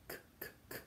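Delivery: k as short bare bursts; hard C. Shown as a demonstration. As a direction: tap out k, k, k voicelessly. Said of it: "C before A and O and U is hard".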